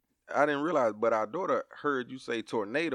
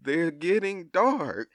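puzzled dad; 3 semitones higher than usual. Retold or imitated. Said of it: "I said".

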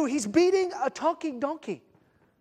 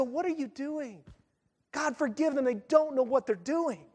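tender forgiveness; 6 dB quieter than usual. Retold or imitated. Jesus forgiving from the cross.

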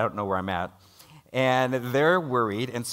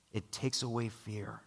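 softer repeat; 9 dB quieter than usual. Acted. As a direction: let the repeat sink in, quietly. Repeated point in the sermon.

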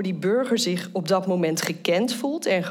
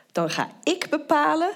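stern official voice; 8 semitones higher than usual. Acted. Voicing the government's stance.

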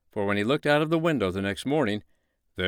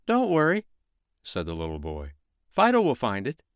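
put-on reassuring little boy; 3 semitones higher, 3 dB louder than usual.

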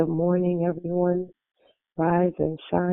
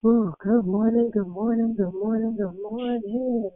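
sing-song greeting; 5 semitones higher than usual. Real, not acted. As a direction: sing out the good mornings. Host greets new caller.

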